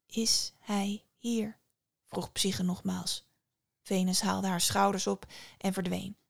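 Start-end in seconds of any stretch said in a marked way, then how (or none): 0.1-1.6 slow breathless whisper; barely dares to ask. Acted. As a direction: Psyche hushed, asking after her lover. Psyche asks again, hushed.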